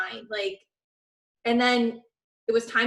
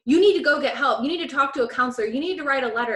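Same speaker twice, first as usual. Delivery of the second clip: louder, insistent retold scolding; angry; 3 semitones higher, 6 dB louder, much faster than usual. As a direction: push the demands, fired up. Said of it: "my angry Italian side came out".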